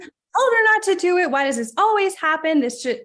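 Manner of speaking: mock frustrated rant at a sick parent; resisting frustration. Caregiver resisting what happens to her parent, exasperated. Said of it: "resisting it as".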